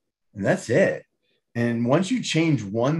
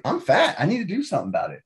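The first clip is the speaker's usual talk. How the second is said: laughing mock confession, higher; laughing self-talk; 6 semitones higher, much faster than usual. Overweight person admitting the truth, laughing.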